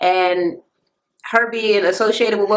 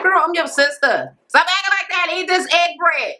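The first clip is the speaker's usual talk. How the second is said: retold sisterly scolding; 7 semitones higher than usual.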